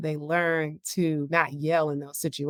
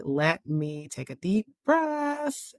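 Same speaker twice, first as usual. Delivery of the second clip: calming self-talk; slower than usual. Retold or imitated. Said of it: "So I try to tell myself".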